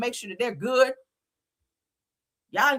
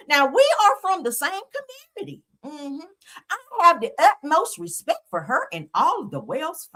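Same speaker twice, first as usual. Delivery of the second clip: prim, higher-pitched mock Becky, lightly done; 5 semitones higher than usual. Mocking the judge's statement in a mock Becky voice. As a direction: read it like a smug prissy lady. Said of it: "I gotta say it in my Becky voice".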